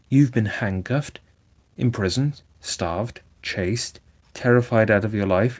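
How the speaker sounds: earnest scolding friend, rising as he goes; Rat scolding. Acted. Rat scolds Toad about stolen motor cars, earnest and stern. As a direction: lecture Toad like a worried old friend.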